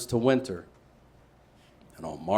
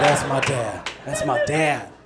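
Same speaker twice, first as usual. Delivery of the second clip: proud boast. Retold or imitated. Boy boasting to Raymond Butler about his dad, proudly. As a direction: show off your dad with a laugh.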